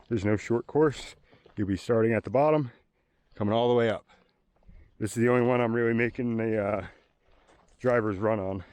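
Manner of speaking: winded after climbing the hill; heavy breathing. Real, not acted. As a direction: talk while catching your breath. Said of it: "Sorry about my heavy breathing".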